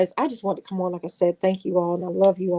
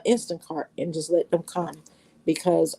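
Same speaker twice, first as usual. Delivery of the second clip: ordinary talk, nothing marked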